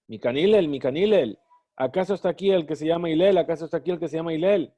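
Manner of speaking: understated mock scorn; scornful. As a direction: toss out Hillel's name with light contempt. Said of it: "Con desprecio".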